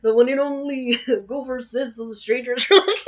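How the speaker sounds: cartoon bear voice breaking into laughter; hammed-up bear voice, laughing through; Yogi Bear. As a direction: innkeeper read as a cartoon bear, giggling. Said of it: "I'm gonna make him Yogi Bear now".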